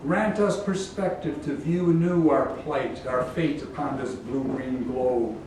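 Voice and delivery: measured, solemn epic invocation; poem recitation. Acted. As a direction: recite it as a prayer to the Muse.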